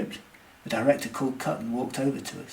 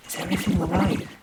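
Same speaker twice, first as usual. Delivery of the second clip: high-pitched worried question; mildly anxious, voice lifted; 6 semitones higher, 8 dB louder than usual. A narrator's reading. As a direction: ask with a touch of anxiety. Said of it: "I asked anxiously, my voice lowered".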